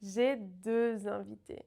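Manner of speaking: deux with closed eu and z liaison, slow; j'ai deux invités said slowly; slow careful. Shown as a demonstration. Teacher modelling deux invités slowly. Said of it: "Can you hear the difference?".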